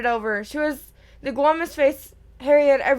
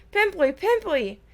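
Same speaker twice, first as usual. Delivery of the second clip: yelling; 6 semitones higher than usual. A narrator's reading.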